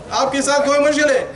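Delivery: mock-angry outburst in Urdu; exasperated Urdu scolding; mad. Imam switching to Urdu at a sleepy brother, mad. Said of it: "When I'm mad, I speak Urdu".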